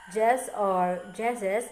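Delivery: "jess or jesses", stretched slowly as Southern forms of yes; drawled YES variants. Shown as a demonstration. Teacher showing how Southern yes changes, drawled "jess or jesses". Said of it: "this results in yes becoming".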